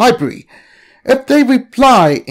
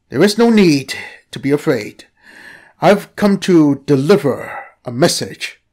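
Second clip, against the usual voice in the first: lower, calm serpent voice; talking snake; 3 semitones lower than usual. Acted. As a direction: soothe them like a mystic creature. Snake speaks.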